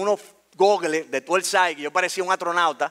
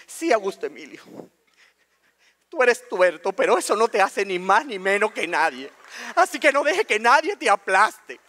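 measured, earnest mom voice, lightly put on; imitating serious mom. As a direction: tell your son firmly, with weighty pauses. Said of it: "mami muy seria". (mamá muy seria, imitada)

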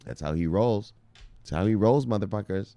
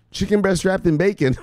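laughing; 10 semitones higher than usual. Real, not acted. Repeating his own joke, cracking up.

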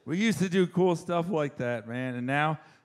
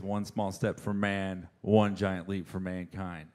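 slow, lower, grand quote; solemn Armstrong; 7 semitones lower, 4 dB quieter than usual. Retold or imitated. Neil Armstrong on the moon, slow solemn quote. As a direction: deliver it like history. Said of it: "the beautifully poetic phrase".

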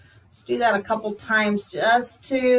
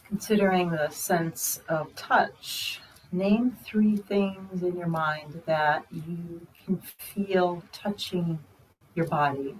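unhurried, hushed meditation guide; guided meditation; 2 semitones lower, 5 dB quieter than usual. Real, not acted. Teacher guiding meditators through the senses, quiet guided meditation. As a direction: ease them inward, leaving long pauses.

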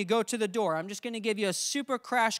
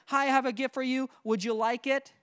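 wrong way, asking; 3 semitones higher than usual. Shown as a demonstration. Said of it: "Don't say".

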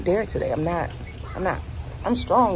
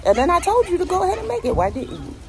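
higher, louder, faster indignant outburst; exasperated rant; 12 semitones higher, 4 dB louder than usual. Real, not acted. Owner venting about nineteen-year-old roommate, exasperated and loud. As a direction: vent your frustration, building up.

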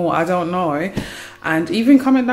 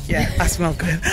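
smug; 3 semitones lower than usual. Shown as a demonstration. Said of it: "You lot hear that?".

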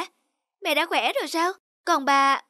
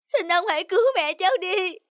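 crying plea to the medicine seller; a child pleading while crying; tearful begging; 4 semitones higher than usual. Acted. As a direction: beg through tears.

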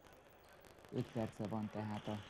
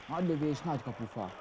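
excited hungarian sports commentary; 6 semitones higher, 9 dB louder than usual. Real, not acted. Near miss, shot hits the post.

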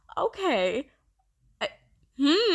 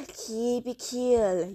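slow self-calming; much slower than usual. Real, not acted.

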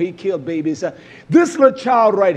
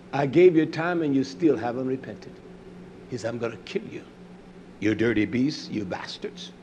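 low, very soft quoted menace; hushed threat; 7 semitones lower, 8 dB quieter than usual. Acted. Preacher voicing God to the unrepentant, low and hushed. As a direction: let the threat sink lower and softer to the end.

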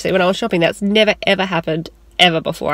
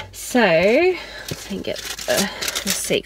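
whispering; much slower than usual. Real, not acted. Baby asleep in the car.

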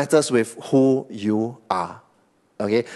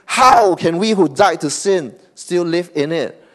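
"How can we who died to sin still live in it?" louder and higher, in disbelief; incredulous; 5 semitones higher, 4 dB louder than usual. Retold or imitated. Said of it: "he is incredulous".

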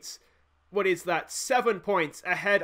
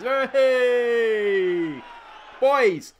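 much louder, higher shout at the players; screaming at screen; 5 semitones higher, 6 dB louder, much slower than usual. Real, not acted. Manager yelling at his defenders: loud shout. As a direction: bark an order at the team. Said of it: "I'm sitting here screaming at the screen".

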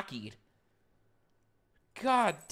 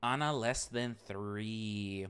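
low, smooth DJ patter over the music; radio host voice; 9 semitones lower, 5 dB quieter than usual. Pretend. Streamer mimicking a radio host, low and smooth. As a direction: play the radio DJ welcoming listeners. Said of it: "I wanted to sound like a, like a radio host".

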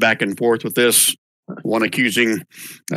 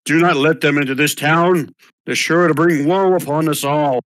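alarmist blowhard; 4 semitones higher than usual. Acted. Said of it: "The other one, the Blowhards".

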